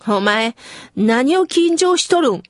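light Kyushu-dialect mother, 何を緊張しとるん said casually; a hint of the mother's Kyushu dialect. Mother teasing her nervous child, in light Kyushu dialect. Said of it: "九州弁丸出しで".

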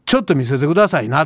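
imitating his assertive shop-customer line; firm request. Customer fending off a shop assistant, mildly firm. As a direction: put on a strong front, mildly forceful. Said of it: "強めに言うんです".

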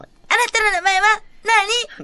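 high put-on doll voice; Rika-chan. Doll asks the caller's name, high doll impression. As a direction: ask it in a high-pitched doll voice. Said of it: "リカちゃんのモノマネをしていきたい".

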